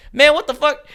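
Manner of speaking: high, loud incredulous swear; exasperated outburst. Real, not acted. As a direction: throw up your hands at the machine. AI refuses again.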